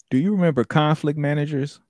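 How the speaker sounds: normal talking voice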